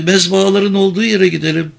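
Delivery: tiny high voice, shaken; frightened, very high small voice; thin, trembling. A narrator's reading. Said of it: "Vicky'nin sesi incecikti, konuşurken titriyordu".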